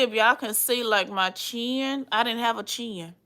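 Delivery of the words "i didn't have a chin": hushed confession; whisper. Real, not acted. Admitting to viewers she had no chin, whispered. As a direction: let it slip out in a whisper. Confiding aside about her chin.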